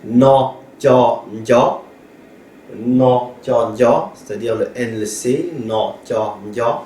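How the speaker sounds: "na, tia, ya" said syllable by syllable; Hmong sound drill. Shown as a demonstration. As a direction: break the cluster into its parts, then join it.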